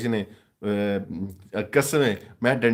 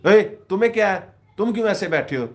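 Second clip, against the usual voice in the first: high, loud, sharp teacher's demand; scolding teacher; 9 semitones higher, 6 dB louder than usual. Retold or imitated. Teacher questioning a sulking pupil, high and loud. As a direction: bark it like a stern schoolteacher. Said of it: "teacher ओनू पई पुछदी".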